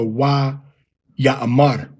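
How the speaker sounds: "Ya'amar" with open a sounds, ya-a-MAR; the common a-a reading of "Ya'amar"; Why Ya'amar. Shown as a demonstration. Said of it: "As opposed to".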